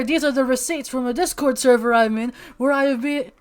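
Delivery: loud, high mock objection speech; courtroom lawyer.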